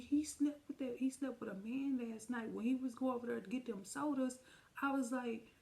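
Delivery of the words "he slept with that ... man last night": telling the sister, high and upset; outraged telling. Retold or imitated. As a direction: blurt out the news. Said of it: "I said".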